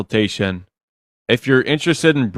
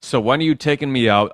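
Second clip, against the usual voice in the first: sassy bratty demo; 2 semitones higher than usual. Shown as a demonstration. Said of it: "It is a little s-, sassy, bratty".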